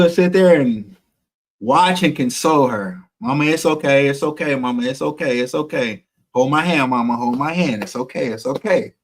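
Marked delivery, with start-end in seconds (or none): 3.2-8.9 soft, gentle soothing to a hurting mother; calm her down, quietly, like at the bedside; hushed reassurance, easing off softer as it goes; tender consoling. Retold or imitated. Son consoling his seizing mother.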